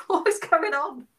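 acting out confusion at crying over hula hoops; baffled. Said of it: "And you're like".

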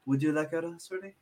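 quiet, quick sales pitch; soft nun voice. Retold or imitated. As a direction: offer it softly like a nun. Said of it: "nuns standing there, like".

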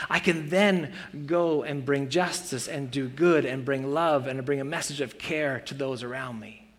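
ordinary delivery

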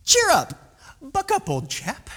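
high, chirpy jollying along; oddly jolly pep talk to someone in distress; mock cheering-up. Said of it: "this weird, "Cheer up. Be happy".

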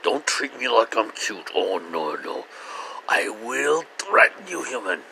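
lightly voiced haughty cat; a hint of an offended cat; voicing the cat. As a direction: warn them off as the cat. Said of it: "I can almost hear her voice".

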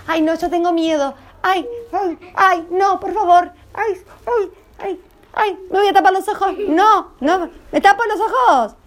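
hammed-up fear at a horror film; mock scared. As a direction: play the frightened viewer, pleading. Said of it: "hace de cuenta que estamos mirando una película de terror".

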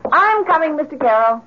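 calling out. Acted. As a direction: call down the stairs so he hears you.

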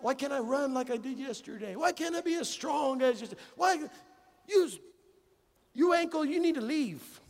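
rising, half-hearted frustrated rant; building from complaint to a mild mock outburst; mock anger at ankle. Pastor scolding his sore ankle, in building mock anger.

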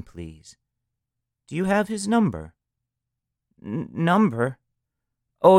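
high, stammering and breathless in a dither; a panicked mother fumbling on the phone; calling the operator, flustered and stammering. Acted. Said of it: "The woman's voice was all of a dither".

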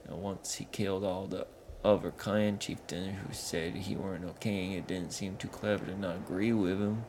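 a dim troll explaining his chief; northern troll grumbling. Acted. Sligu describes Yetu.

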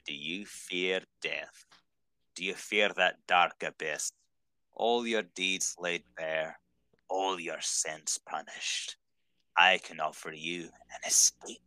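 slow, lightly acted sea-villain quote; measured, grave recitation of a movie line, lightly in character; Davy Jones. Fan quoting a favorite villain's line to a friend, slow and lightly acted. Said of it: "And the way he says it".

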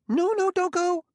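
very high, loud squeaky plea; desperate squeak. A narrator's reading. Gramianus begging Bailey not to leave, desperate squeak. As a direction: squeal it out in a panic. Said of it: "desperately, in what was almost a squeak".

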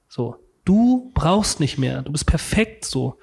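slow, spaced-out affirmation; retold blissful reassurance. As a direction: let each word settle calmly. Voices the blissful inner message.

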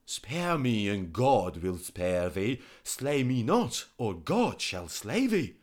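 loud, high desperate plea; pleading physician. Acted. Physician begging the king for mercy, loud and high. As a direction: beg for your life.

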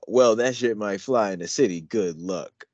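put-on lyrics recited in a country accent. Showing a friend his country accent on the lyrics, country twang. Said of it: "my country accent is strong".

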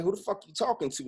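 triggered retort. Retold or imitated. Son lashing out at his mother, re-enacted angry retort. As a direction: fire it back at her, offended. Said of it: "now I'm triggered".

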